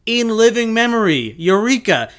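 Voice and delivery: high, loud cry of discovery; eureka moment. Acted. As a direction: exclaim as the answer suddenly hits. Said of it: "Harry has a eureka moment".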